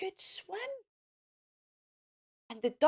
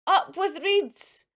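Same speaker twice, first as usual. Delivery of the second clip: mild hooting cheer; 5 semitones higher, 5 dB louder, slower than usual. Acted. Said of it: "and they hooted".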